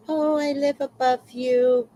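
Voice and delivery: high, sugary neighbor voice; sweet neighbor. Retold or imitated. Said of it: "being all sweet".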